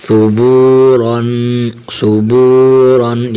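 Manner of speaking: صبورن with the ص sound kept clean and exact, read slowly; clear th sound. Shown as a demonstration. Teacher stressing exact articulation in صبورن. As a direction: say صبورن carefully, not as س. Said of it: "سا کی آواز نکالنی ہے".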